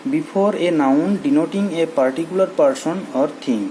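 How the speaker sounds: the English rule read very slowly. Shown as a demonstration. Teacher reading the rule about the to students slowly. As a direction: dictate the rule word by word. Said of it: "ᱯᱳᱭᱞᱳ ᱨᱮᱫᱚ ᱞᱟᱹᱭ ᱦᱩᱭᱩᱜ ᱠᱟᱱᱟ".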